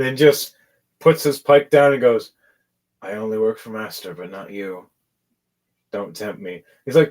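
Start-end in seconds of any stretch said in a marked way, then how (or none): 3.0-6.6 robot servant. Acted. Plays robot servant of Master.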